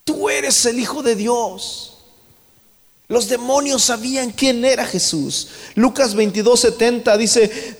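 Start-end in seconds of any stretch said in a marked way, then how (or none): 0.0-1.9 high, slow cry without real volume; drawn-out, raised-pitch imitated outcry; mock crying out. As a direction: stretch it out like demons calling. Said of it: "salían demonios gritando y diciendo".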